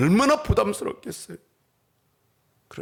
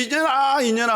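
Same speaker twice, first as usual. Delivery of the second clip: mock child crying; 5 semitones higher than usual. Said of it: "하고 우냐면".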